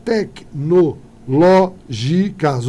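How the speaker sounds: slow stress check on "Tecnológicas"; syllables drawn out. Shown as a demonstration. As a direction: draw out "Tecnológicas" to show the stress on "ló". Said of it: "achei uma".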